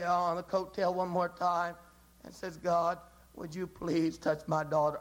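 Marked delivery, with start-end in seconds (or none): 2.6-5.0 lower, earnest, pressing plea; desperate plea. Acted. Mother tugging God's coattail again, low desperate plea. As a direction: hold on and refuse to let go. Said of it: "desperation tucks him on the coattail".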